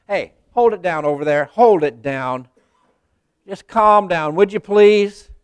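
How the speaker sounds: the crowd telling the beggar to hush; rebuking crowd. Retold or imitated. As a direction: shush him down impatiently. Crowd rebuking the blind man.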